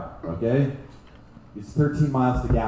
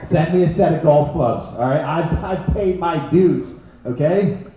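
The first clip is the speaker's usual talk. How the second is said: excited retold self; 3 semitones higher, 3 dB louder than usual. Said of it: "I got excited".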